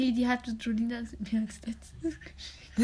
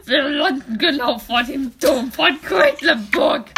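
louder pilot announcement with a laugh; calling out; 6 dB louder than usual. Acted. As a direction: call it out to the kids over the rotor noise. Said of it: "rief er".

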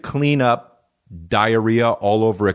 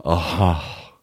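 mock gasp and low "oh"; imitated gasp; 6 semitones lower than usual. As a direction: act out his reaction with a gasp. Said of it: "he goes like this".

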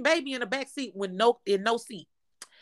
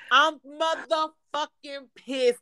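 drawn-out pissed; 3 semitones higher, much slower than usual. Real, not acted. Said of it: "I'm pissed".

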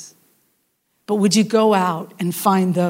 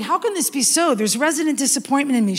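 doubting disappointment; 3 semitones higher than usual. Retold or imitated. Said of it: "But she's not saying".

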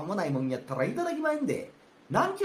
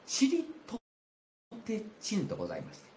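shamisen sound; 5 semitones higher, 4 dB quieter than usual. Retold or imitated. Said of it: "三味線の音色のあの".

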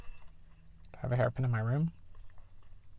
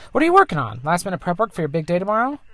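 voiced player character; 6 semitones higher, 6 dB louder, faster than usual. Reading player line to mom.

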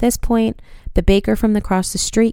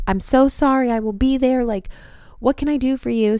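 higher-pitched imitation of an apologetic girlfriend; retold concerned sympathy; 5 semitones higher than usual. Girlfriend answering news of an injury, mock-anxious sympathy. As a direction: play up the eager, caring offer to help.

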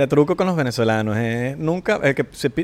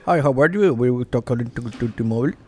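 mock English; 5 semitones lower, slower than usual. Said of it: "y si no, te dice".

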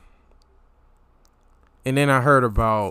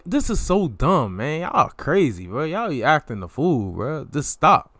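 lightly exasperated brush-off, slightly softer; dismissive; 2 semitones higher, 4 dB quieter than usual. Retold or imitated. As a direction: wave it all away as nonsense. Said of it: "Just kinda dismissive".

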